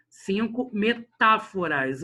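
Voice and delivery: CINCO METÁFORAS slow, TÁ set apart and leaned on; stress on TÁ. Shown as a demonstration. Teacher locating the fourth syllable, CINCO METÁFORAS slow with strong TÁ. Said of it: "O tá".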